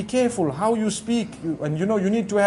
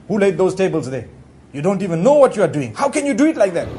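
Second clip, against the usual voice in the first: blunt scolding; 4 dB louder, faster than usual. Retold or imitated. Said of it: "if I say".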